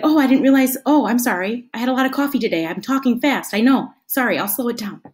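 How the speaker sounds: lightly acted sheepish apology; mild, agreeable oops-sorry; apologetic reply. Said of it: "They'd be like".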